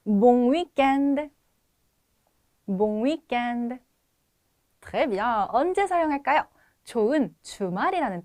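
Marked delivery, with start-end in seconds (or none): 0.1-3.8 Bon weekend slow, clear, final syllable held; model pronunciation. Shown as a demonstration. Teacher lets students try the phrase, slow model pronunciation. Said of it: "발음 시도해 보겠습니다".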